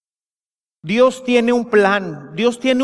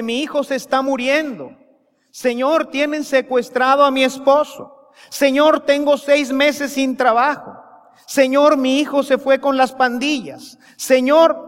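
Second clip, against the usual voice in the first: desperate pleading; 6 semitones higher than usual. Retold or imitated. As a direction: beg the Lord again and again. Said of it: "y grita, y grita".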